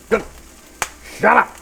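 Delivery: sudden high yell, shut up at the beeping alarm. Real, not acted. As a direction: snap loudly at the alarm. Yelling at alarm.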